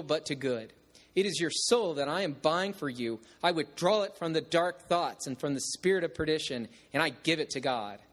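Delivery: solemn, earnest blessing; solemnly. Retold or imitated. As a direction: speak it like a solemn vow to a lost man. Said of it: "he continued solemnly".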